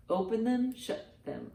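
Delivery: ordinary delivery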